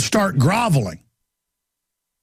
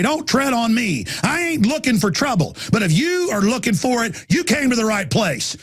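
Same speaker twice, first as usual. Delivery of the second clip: defiant; 5 semitones higher than usual. Retold or imitated. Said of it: "get aggressive and say".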